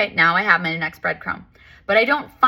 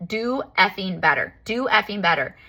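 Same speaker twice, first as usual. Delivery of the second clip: mock scream; 2 semitones higher than usual. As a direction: stretch each word in retold fury. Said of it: "And I started screaming".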